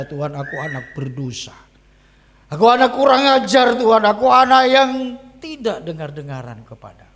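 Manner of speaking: building to a high, loud wail; acted tearful confession. Boy clings to captain confessing to God, acted crying. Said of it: "saya menangis masih berkata".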